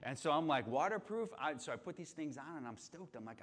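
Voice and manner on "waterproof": high, sceptical rising question; mock disbelief at the word; incredulous echo. Scoffing at the boots' waterproof label, incredulous. Doubting his new boots.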